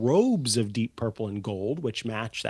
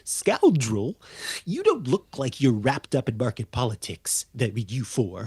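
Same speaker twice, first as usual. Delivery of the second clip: gnome voice. Acted. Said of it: "the gnome goes".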